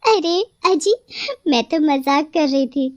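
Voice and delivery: a hint of a bloodthirsty witch, then a laugh; witch mocking the rose. Possessed bride scorns the rose and asks for blood.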